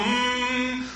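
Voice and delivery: a calm, meditative mock hum; guru hum. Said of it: "legs crossed, going".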